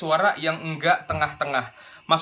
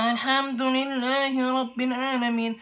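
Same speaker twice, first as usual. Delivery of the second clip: higher, slow, forced imitation of a deep voice; straining to copy deep reciter; 8 semitones higher, slower than usual. Shown as a demonstration. High-voiced student forcing a deep reciter's tone. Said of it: "pas dia mau niruin Michelle Rossi".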